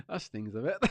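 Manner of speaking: giggling through it; laughing understatement. Retold or imitated. Inner voice, laughing.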